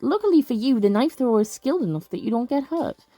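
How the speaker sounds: measured game-text narration; story narration. Acted. Player reading patrol results to viewers, story narration. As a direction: read it out like a storyteller.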